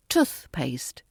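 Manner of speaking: TOOTH stressed, paste lighter and falling. Shown as a demonstration. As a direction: say toothpaste with the weight on the first word. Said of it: "stress on the first word".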